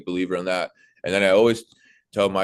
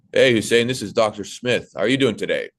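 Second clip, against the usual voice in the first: louder, confident clear greeting; serious professional; 3 semitones higher, 5 dB louder than usual. Retold or imitated. Imagined doctor greeting a patient, confident and professional. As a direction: sound in charge and attentive. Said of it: "That's my tonality".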